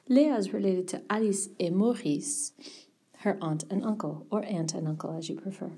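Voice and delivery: hushed, conspiratorial whisper. Real, not acted. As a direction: whisper it to the class. Teacher suddenly whispers.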